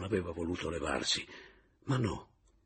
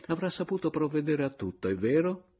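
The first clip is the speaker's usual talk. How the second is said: higher, unctuous brother-in-law; lightly voiced fawning Papiano; 4 semitones higher than usual. Papiano flatters the lodger, fawning and higher. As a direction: ingratiate yourself with the lodger.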